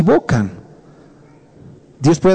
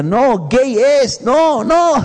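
mock shout; 6 semitones higher, much slower than usual. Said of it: "Dios te puede estar gritando".

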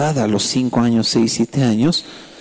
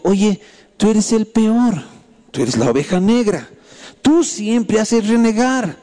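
slow, higher-pitched scolding; shaming father; 6 semitones higher, slower than usual. Retold or imitated. Father shaming his son before all his children, slow mock scolding. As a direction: imitate a reproachful father, drawing words out. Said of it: "lo empezó a avergonzar".

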